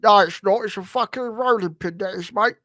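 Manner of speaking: lightly voiced London gangster; Kray Twins. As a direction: argue back as a London gangster. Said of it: "fucking the Kray Twins".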